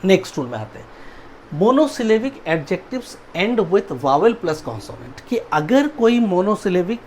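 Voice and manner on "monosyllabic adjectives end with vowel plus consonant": slow rule reading. Shown as a demonstration. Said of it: "teacher reads rule slowly".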